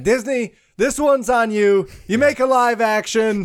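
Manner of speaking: raising a toast to Disney. Pretend. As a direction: call it out like a bar toast. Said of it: "You make it sound like you're taking shots".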